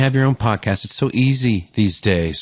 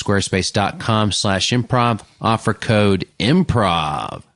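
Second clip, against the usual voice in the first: ad read. Shown as a demonstration. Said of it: "repeating the ad URL".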